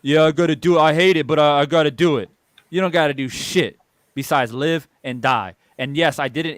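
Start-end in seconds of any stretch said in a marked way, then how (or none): 0.0-2.3 mock resigned worker.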